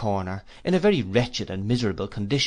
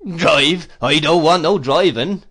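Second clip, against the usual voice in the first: hearty fisherman; 5 semitones higher, 8 dB louder, slower than usual. Acted. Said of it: "with an honest laugh".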